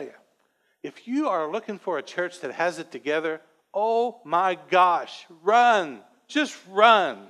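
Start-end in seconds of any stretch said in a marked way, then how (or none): 3.7-7.2 drawn-out oh my gosh, then a louder run; mock alarmed. Real, not acted. Pastor jokingly tells church shoppers to run, louder. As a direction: jokingly warn them off, louder.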